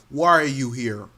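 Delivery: lightly put-on African accent; a hint of a stern African accent. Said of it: "he's doing his best African accent".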